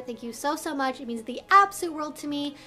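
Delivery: ordinary talk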